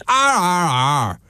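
harsh high Northern Irish arr sounds; Northern Irish accent. Retold or imitated. Host mocks the Northern Irish accent, rasping arr. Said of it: "A Northern Irish accent".

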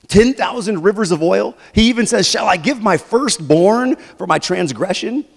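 loud, sarcastic questions to God; snarky questioning. Acted. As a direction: throw the offers out with snark. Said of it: "can you feel the snark in that?".

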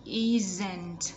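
"isn't" with a lightly released final t. Shown as a demonstration. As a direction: pop the ending of "isn't" gently. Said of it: "Bật nhẹ ending sound ở cuối".

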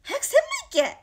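lightly voiced grandma, high and loud; imitating grandma. Granny always telling the streamer to get going, mock loud urging. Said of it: "てばあちゃんはよく言う".

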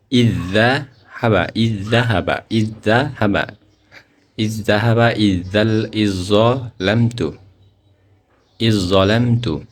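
very slow ইজ্জাহাবা, the জ doubled, not the jazm; drawn out and chanted; slow tajweed recitation. Shown as a demonstration. Teacher answers how to read it, slow chanted recitation. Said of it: "তো এটা কিভাবে হবে?".

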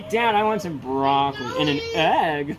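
put-on a child's crying whine of "Dad"; mimicking son with app accent. Father imagining his son asking for breakfast, whiny child. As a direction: beg for broccoli and egg like a little boy. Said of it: "He's gonna be like".

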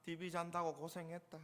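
understated ironic Gyeongsang accent; Gyeongsang sarcasm. Shown as a demonstration. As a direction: praise them drily in Gyeongsang dialect. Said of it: "경상도식으로 표현을 해도".

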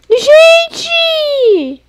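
high, loud startled shout; high loud yelp of surprise; startled cry. Real, not acted. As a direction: yelp it out in shock. Startled calling out in game.

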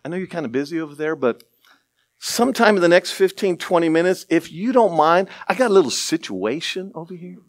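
a hint of mild, casual politeness, quick at first; overly polite request. Parent calling the lifeguard, mock-casual and unhurried. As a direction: ask the lifeguard as if it's nothing urgent. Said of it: "would you say".

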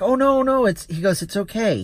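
high, hurried don't-worry tone; imitated reassurance. Passenger soothing the embarrassed driver, imitated reassurance. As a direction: imitate someone waving off an apology.

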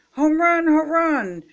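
high, loud cheer for a hit; excited shout. A narrator's reading. Froggy celebrates his imagined homer, shouting. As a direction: shout it out in triumph. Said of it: "shouted Froggy".

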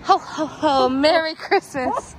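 booming jolly Santa ho ho ho; loud, hearty Father Christmas. Pretend. Yeah, we're Santa today.

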